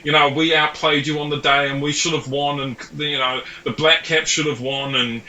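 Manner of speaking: hammed-up aggrieved Kiwi in a New Zealand accent; a jokey New Zealand accent aimed at a Kiwi cricket fan. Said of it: "I'm gonna do your accent here".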